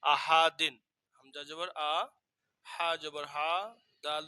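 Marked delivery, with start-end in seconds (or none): 0.0-0.8 আহাদিন read as one joined word, loud; joined Arabic reading. Shown as a demonstration. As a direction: blend the syllables into আহাদিন. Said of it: "এটার উচ্চারণ হবে".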